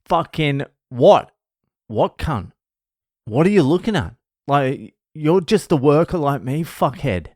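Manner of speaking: high, loud mock outburst; confronting the toxic coworker, mock indignant; retold angry retort. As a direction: snap back at the coworker.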